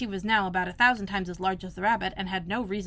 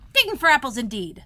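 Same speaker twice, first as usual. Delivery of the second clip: louder scornful repeat; angry; 4 semitones higher, 8 dB louder than usual. A narrator's reading. Rabbit scornfully mocking Pat, louder. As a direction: throw the words back at him. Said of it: "said the rabbit angrily".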